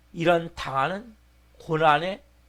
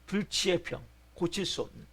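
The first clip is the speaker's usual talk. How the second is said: normal talking voice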